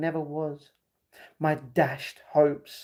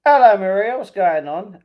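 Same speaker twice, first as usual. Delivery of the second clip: a shouted, high hello; bursting in loudly; loud greeting; 4 semitones higher, 10 dB louder than usual. Acted. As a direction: call out brightly. Mock call to a friend.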